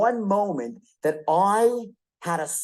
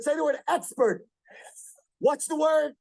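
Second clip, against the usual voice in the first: calling on audience; 7 semitones higher than usual. Real, not acted. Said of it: "I'll make you say it out loud".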